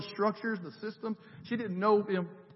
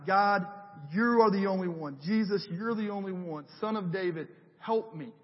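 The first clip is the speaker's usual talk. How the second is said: desperate plea. Retold or imitated. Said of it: "that was desperation".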